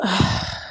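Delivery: heavy, wordless sigh; exasperated sigh. Real, not acted. Fed-up recapper on Pasa crying in his car, exasperated sigh. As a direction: let out a weary sigh.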